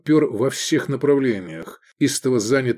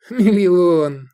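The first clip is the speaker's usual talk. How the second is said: contemptuous snort; 7 semitones higher, 6 dB louder than usual. Acted. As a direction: scoff the word Миллион with grand disdain, higher and louder. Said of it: "фыркнул Эдик с великолепным пренебрежением".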